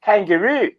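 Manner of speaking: a bad Australian "Kangaroo" with a drawn-out "roo"; a self-mocking Australian "Kangaroo"; Australian accent attempt. Shown as a demonstration. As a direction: try "Kangaroo" the Australian way, badly. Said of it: "the only thing I could say is".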